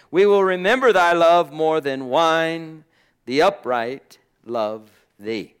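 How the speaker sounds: measured, emphatic Bible reading; scripture reading. Acted. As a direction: read the verse out to a congregation with weight. Reads scripture aloud to congregation.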